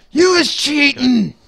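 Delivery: put-on very loud, high, shrill, obvious drunk voice. Game narrator voicing a bar character accusing a player, obviously drunken voice. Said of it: "he says in an obviously drunken voice".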